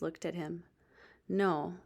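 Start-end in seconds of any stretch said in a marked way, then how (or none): 1.3-1.8 put-on whispered, defeated boy; barely voiced, giving up; deflated. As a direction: let the air go out of him.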